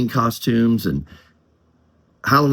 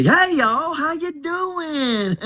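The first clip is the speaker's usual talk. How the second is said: much higher, very slow Southern hick drawl; redneck drawl; much slower than usual. Shown as a demonstration. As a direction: stretch out a hammed-up Southern y'all greeting. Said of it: "You gotta say".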